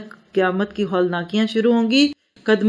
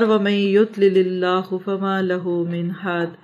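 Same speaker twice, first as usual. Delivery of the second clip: measured Arabic recitation, long vowels; scripture recited in Arabic; Quran recitation. Real, not acted. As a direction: recite the verse evenly and deliberately.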